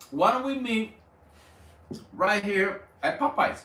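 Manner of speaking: lightly voiced happy guy; eager Martin. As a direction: sell it like he's glad to meet. Martin voiced happily in story.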